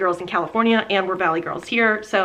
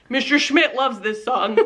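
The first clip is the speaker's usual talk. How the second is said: laughing quote; 3 semitones higher than usual. Retold or imitated. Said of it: "he goes".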